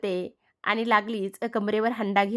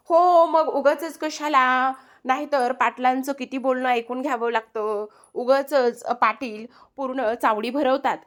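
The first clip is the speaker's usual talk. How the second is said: sarcastic retort; 3 semitones higher than usual. Acted. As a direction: stretch the first words in mock agreement, then grumble. Wife's retort to husband's teasing.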